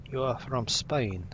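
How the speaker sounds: slow, badly faked Spanish accent; terrible Spanish accent. Streamer assigning a recruit a nationality, in a bad Spanish accent. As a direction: put on a poor Spanish accent, drawn out. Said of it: "That was a terrible Spanish accent".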